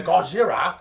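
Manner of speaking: exaggerated Japanese-accented exclamation; caricatured Japanese accent. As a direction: put on a hammed-up Japanese accent. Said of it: "in a very racist accent".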